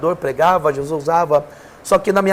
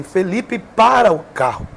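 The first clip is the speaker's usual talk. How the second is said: a slow, firm call of the name, only mildly raised; lightly voiced command to stop, drawn out slowly; retold divine shout; 3 semitones higher, slower than usual. The Holy Spirit ordering Felipe to stop the car, slow mild mock shout. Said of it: "gritou dentro do carro".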